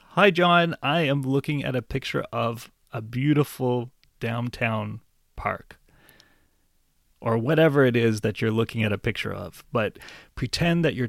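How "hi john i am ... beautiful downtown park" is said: friendly phone greeting. Shown as a demonstration. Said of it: "you can begin by using your best friend's name".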